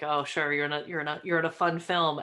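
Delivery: offhand, unimpressed retold reply; casual dismissal. Friends responding to a comedian's film news, mildly dismissive. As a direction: humour them without much interest. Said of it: "people were like".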